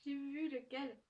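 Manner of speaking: sudden high, loud gasp of recognition; delighted surprise. Real, not acted. Opening the Clexa sticker from her partner, a thrilled shriek. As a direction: squeal as she spots the sticker. Spots the gift she hoped for.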